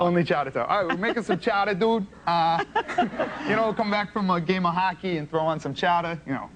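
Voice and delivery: put-on playful Boston bro accent. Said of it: "I can turn it on for you".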